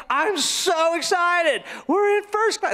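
high, drawn-out glee, imitating a child; excited little girl. Little girl answering passenger's teasing, excited. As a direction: stretch it out with mock giddy delight. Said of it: "be a little more excited".

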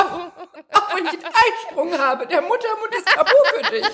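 very high squeal, laughing; laughing falsetto; silly high voice. Pretend. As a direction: squeak it like a cartoon prude. Squeaky mock continues.

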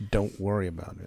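low-pitched dismissal; mock brush-off. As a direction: imitate a partner shutting down the offer. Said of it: "How about".

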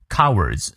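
"Cowards" with the first syllable stressed. Shown as a demonstration. Teacher shows learners where the accent falls, front-stressed "Cowards". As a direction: lean on the front of "Cowards", letting the end fall. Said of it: "注意它的重音在前".

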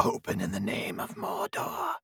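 high, slow, shrieking wraith voice; hammed-up ghoul at the door; mock Ringwraith.

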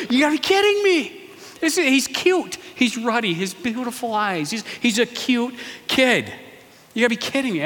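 high, sneering incredulous voice; mock his cuteness in a high voice; mocking disbelief. Brothers mocking little David's looks, high-pitched.

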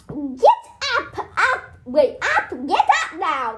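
laughing, lightly voiced shrill aunt; Aunt Petunia voice. Shown as a demonstration. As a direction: call him awake as the aunt, giggling. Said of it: "That's, that's my Aunt Petunia voice".

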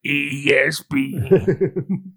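slow, drawn-out announcer spelling; sportscaster voice. Pretend. Sports channel name spelled out.

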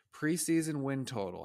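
bad Southern accent. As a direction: amateurish attempt at a Southern accent. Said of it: "How was my Southern accent?".

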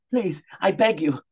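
sobbing plea. Acted. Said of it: "sobbed Jeremy".

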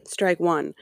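slow, sulky mock groan; mocking disdain. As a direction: sneer it like a fussy customer. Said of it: "you're like".

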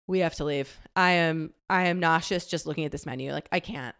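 barely getting it out, feeling sick; queasy plea. Retold or imitated. Nauseous at the menu, telling dad softly they must leave.

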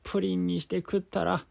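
put-on high, loud old man. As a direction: boast like an excited old grandpa. Grandpa voiced again.

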